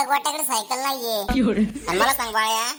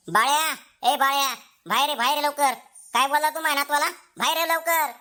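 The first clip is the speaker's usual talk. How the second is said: insistent summons; calling out crossly. Acted. Father calls his son out to answer for the boy, calling out crossly. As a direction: order someone out at once. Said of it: "कशाला एवढं ओरडताय बाबा तुम्ही?".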